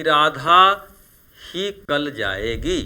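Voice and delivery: ही stressed with a rise; emphasis on ही after Radha. Shown as a demonstration. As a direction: lean on the word ही. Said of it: "ही शब्द पर जोर दिया जा रहा है".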